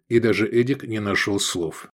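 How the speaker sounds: ordinary delivery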